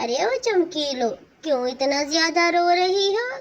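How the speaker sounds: bossy second wife. Acted. New wife bosses crying first wife.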